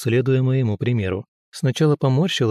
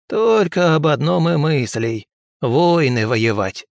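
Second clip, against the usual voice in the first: slow, higher crone voice; scolding old woman; 4 semitones higher, 3 dB louder, slower than usual. Acted. Murashikha complains to the girl about men. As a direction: finish the complaint like a weary granny. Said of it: "закончила Мурашиха".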